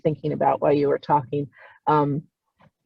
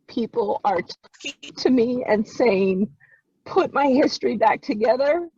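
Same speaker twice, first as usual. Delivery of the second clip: crying; 5 semitones higher than usual. Real, not acted. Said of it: "the reason I'm crying".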